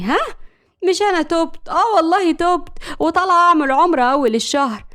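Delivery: mock-wounded daughter, pitch lifting; playfully put-on sulk; feigned hurt. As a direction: protest as if deeply offended. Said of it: "ملك بزعل مصطنع".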